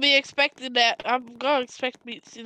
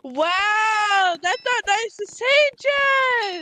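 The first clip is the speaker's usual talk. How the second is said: offended shout; 7 semitones higher, much slower than usual. Pretend. Mock offended outburst.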